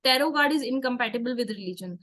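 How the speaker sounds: very slow, spelled-out heading; slow topic heading. Real, not acted. Tarot teacher announcing the next topic to her class, very slow.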